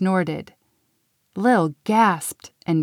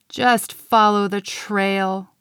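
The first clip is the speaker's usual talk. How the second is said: groaned; slower than usual. Acted. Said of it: "Glitter groaned".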